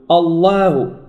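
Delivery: wrong «الله»: dark L, then thinned long A; erro demonstrado. Shown as a demonstration. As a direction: slide the vowel of الله from dark to light. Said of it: "ولا نقول".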